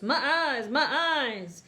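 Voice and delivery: high, loud pained mole wail; blinded villain. Acted. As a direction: howl as the light burns his eyes.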